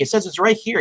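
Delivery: high-pitched imitated protest; mock frustrated kid. Retold Max puzzled by phone app.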